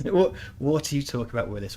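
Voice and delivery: light mock exasperation, echoed; imitating a friend. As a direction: repeat the friend's line, half-voiced. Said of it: "Which is what he calls me".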